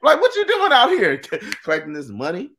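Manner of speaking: high laughing mock pimp. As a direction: crack up mid-line as a pimp.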